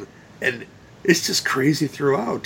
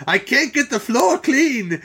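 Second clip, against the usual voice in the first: put-on higher, slow, with only a light Asian accent; a hint of an Asian accent; 10 semitones higher than usual. Imitating the maid who scrubs the blood, a slow, light Asian accent. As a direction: ease into a partial Asian accent, slowly. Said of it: "I don't wanna do an Asian voice all the way".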